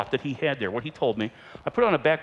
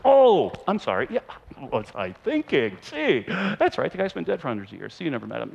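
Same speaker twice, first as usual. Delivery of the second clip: mock sheepish apology. Mock apology about Rembrandt.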